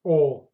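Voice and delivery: О sounded out alone and stressed; the vowel О held on its own as the stressed sound; stressed final vowel. Shown as a demonstration. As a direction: isolate the stressed О at the end. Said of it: "stress goes to the last vowel".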